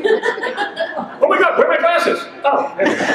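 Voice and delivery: words squeezed out between high giggles; can't stop laughing while talking; laughing through words. Real, not acted. Guest laughing at his own story to the host.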